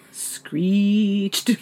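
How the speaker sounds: "screeched" drawn out in one long beat; laugh, then stretch "screeched" as a joke; teasingly elongate the vowel of "screeched"; mock one-syllable callback. Running joke on the word.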